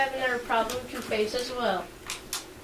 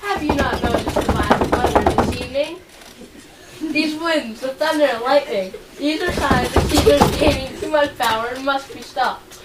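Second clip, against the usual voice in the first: louder, pressing the omens hard; urgent warning; 5 dB louder than usual. Acted. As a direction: drive home the danger of Caesar. Cassius urges with storm omens.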